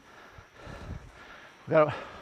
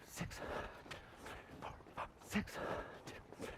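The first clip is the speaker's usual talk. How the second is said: very soft whispered rhythmic count; breathy counting; 3 semitones higher, 16 dB quieter than usual. Real, not acted. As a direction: count on the breath, keeping the running cadence. Coach counting along with runner's breaths.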